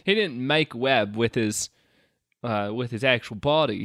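put-on British accent slipping towards Australian; fake British accent. The speaker tells Maggie about the original Spider-Man, in a slipping British accent. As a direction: explain in a wobbly mock British accent. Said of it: "now I'm doing Australian".

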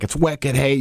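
put-on, hammed-up Boston accent; terrible Boston accent. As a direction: say it in a bad fake Boston accent. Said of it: "pretend you have a terrible Boston accent".

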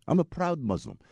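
mock Pakistani accent; bad Muslim accent. Driver declaring his faith, in a mock Pakistani accent. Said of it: "That's my really bad Muslim accent".

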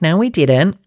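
high mock denial, pitched well up; sing-song fake innocence; mocking Ariana and Tom. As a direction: scoff it out like a guilty couple caught. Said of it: "And Ariana and Tom are like".

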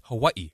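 "Hawaii" said as the locals supposedly do; careful local pronunciation. Shown as a demonstration. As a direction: attempt the proper island pronunciation of "Hawaii". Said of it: "I'm supposed to say it's".

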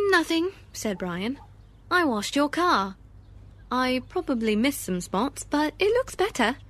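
a hint of a soaked, proud little boy; young boy voice. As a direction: play it like a kid caught out. Boy voiced in read story.

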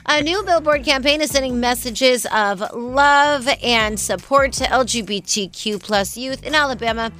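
measured news-read delivery. Acted. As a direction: read it like a newscaster. Reads the news segment.

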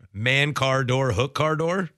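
stumbling uncertain try ending on a rise; Man, car, door rushed then questioning rise on door; failed attempt. Shown as a demonstration. Co-host botches the phrase again, unsure. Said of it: "No, see, I'm done".

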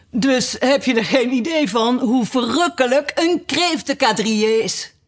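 tearful turtle. A narrator's reading. Tearful turtle extolling the lobster dance.

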